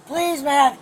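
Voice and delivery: loud urgent begging; desperate pleading. Real, not acted. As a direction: plead for your belongings. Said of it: "You wanna scream at me some more?".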